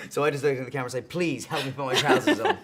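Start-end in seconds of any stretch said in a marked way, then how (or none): 1.1-2.6 laughing through the line. Real, not acted. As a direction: chuckle the words out.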